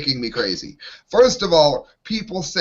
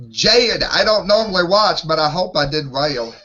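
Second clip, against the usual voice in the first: lightly put-on Southern twang; attempted Southern accent. Co-host takes a turn at Walking Dead impression, mild Southern accent. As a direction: try a mild Southern call on the name. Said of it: "yell out a name in a southern accent".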